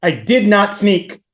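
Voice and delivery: slow, deliberate mock indignation; indignant denial. Quoting the book's sneaking denial, mock indignant and slow. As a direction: space out each word in protest.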